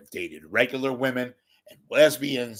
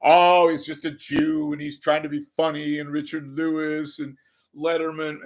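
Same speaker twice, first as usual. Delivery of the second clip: mock critic voice; 2 semitones higher than usual. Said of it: "I wanna tell people this".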